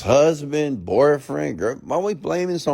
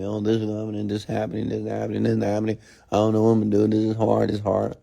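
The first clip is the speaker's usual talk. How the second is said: monotone run-on litany of complaints; mock complaining. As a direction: imitate someone moaning on and on. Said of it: "complaining about their problem".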